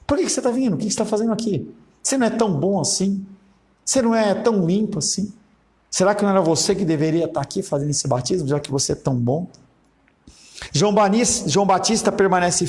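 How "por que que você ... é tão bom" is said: mock-questioning, pitched high at first, then settling; sarcastic. Preacher voicing João Batista challenging those coming for baptism, sarcastic. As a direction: needle them with exaggerated, disbelieving questions. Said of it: "falando dentro de uma condição sarcástica".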